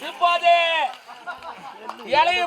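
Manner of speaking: announcer-like call of a household chore; emphatic mock-formal running commentary; mock live commentary. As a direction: announce it like a public event.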